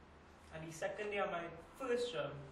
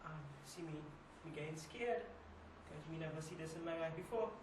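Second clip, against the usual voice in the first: hushed recounting; 2 semitones lower, 7 dB quieter than usual. Acted. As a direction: recount the hold-up softly, with halting pauses. Recounting a frightening hold-up in monologue.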